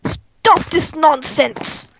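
very slow hammy command; mock stern command. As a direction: overact a stern order. Mock villain scolding.

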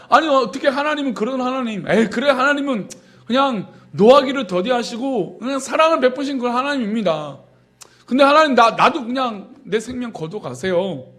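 sarcastic Jonah. Retold or imitated. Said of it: "비아냥거리면서 따지듯이 이야기하고 있습니다".

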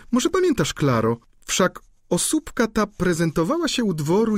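sly duchess. A narrator's reading. Duchess slyly corrects the student about the countess, gossiping. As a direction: drop the gossip with sly poise.

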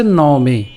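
"ন মে" said as two distinct words; pronunciation demo. Shown as a demonstration. Teacher showing students the verse's opening, careful pronunciation. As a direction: model "ন মে" carefully for learners. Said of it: "উচ্চারণটা কেমন হচ্ছে?".

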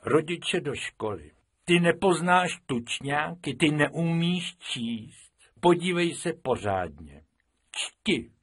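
a teacher scolding a pupil; angry teacher. Acted. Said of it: "rozlobil se a řekl". (rozlobený učitel, přísně a hlasitěji)

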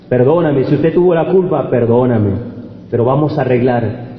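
calm the other driver down; a soft-spoken plea to make things right; soft words. Retold or imitated. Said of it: "con una blanda palabra".

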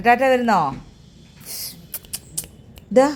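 high, loud sing-song call to a pet; high pet talk. Real, not acted. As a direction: coo the question up high like to a little animal. Cooing to a pet.

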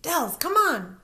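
loud high call; yells. A narrator's reading. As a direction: hurry her along. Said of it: "Brandy yells".

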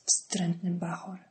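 slow unvoiced whisper; whispered insult. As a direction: spit it out under the breath. Michalina mutters insult at kid.

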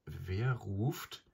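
leicht zittrige, höhere Frage einer Frau; zitternde Stimme. A narrator's reading. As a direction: frag zaghaft und etwas höher ins Dunkel. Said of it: "fragte die Frau mit zitternder Stimme". (Frau fragt ins Dunkel, mit zitternder Stimme)

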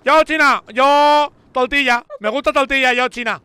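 loud, high mock Chinese accent. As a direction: shout a broken Chinese accent, r as l. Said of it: "voy a imitar a China".

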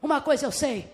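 low, quiet, unhurried answer; healed man's reply. Acted. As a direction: answer the accusers with calm certainty. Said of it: "E vira ele".

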